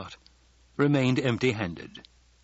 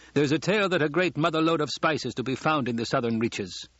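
lightly voiced planetary expert, higher pitch; hint of an informed guest speaking up; Kynes the expert; 5 semitones higher than usual.

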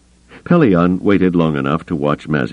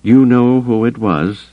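high, slow, louder demand; 8 semitones higher, 5 dB louder than usual. A narrator's reading. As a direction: press him for the answer, drawn out. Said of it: "Mazik demanded".

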